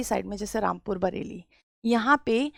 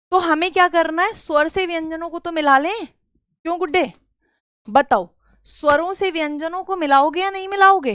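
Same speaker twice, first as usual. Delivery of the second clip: quizzing the class; 5 semitones higher than usual. Real, not acted.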